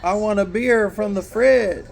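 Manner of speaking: parrot imitation. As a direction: squawk it out like a trained parrot. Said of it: "They have a parrot sitting there".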